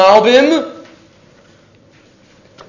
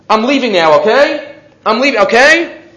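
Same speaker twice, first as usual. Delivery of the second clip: polite German asking; 5 semitones higher, 4 dB louder than usual. Retold or imitated. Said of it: "They always said it like that".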